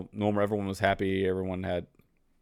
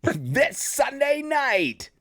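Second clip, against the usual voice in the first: movie trailer voice; much slower than usual. Acted. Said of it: "I can do the movie guy voice too".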